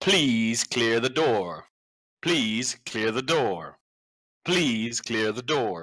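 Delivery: computer-generated, synthesized, robotic announcer voice. Narrating a scene of flashing emergency lights and sirens, in a synthesized voice. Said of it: "you hear a synthesized voice go".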